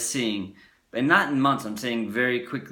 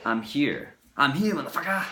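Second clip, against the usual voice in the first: confident; 4 semitones higher than usual. Retold or imitated.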